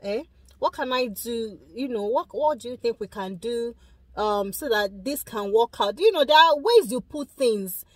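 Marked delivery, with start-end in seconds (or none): 0.0-6.0 soft, caring offer of help; a husband gently asking his stressed wife how to help; gentle coaxing husband. Retold or imitated. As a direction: coax her kindly, like a supportive husband. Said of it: "just be like".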